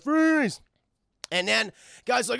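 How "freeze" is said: high mock shout to halt; barked police order. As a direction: shout it like a movie cop. Voices Dredd ordering survivor.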